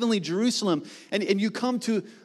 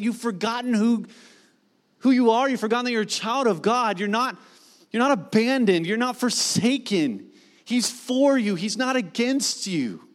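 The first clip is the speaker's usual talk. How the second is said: passionate exhortation; 3 semitones higher than usual. Acted. Preacher voices writer's exhortation.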